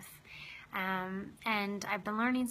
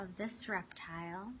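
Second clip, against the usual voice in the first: unhurried meditation guide, long pauses between phrases; guided meditation. Acted. Host guiding listeners to open their hearts to a lizard, guided meditation. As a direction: lead them gently inward, leaving space after each phrase.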